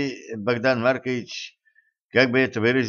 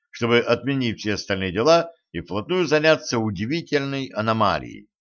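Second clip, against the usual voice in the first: ordinary delivery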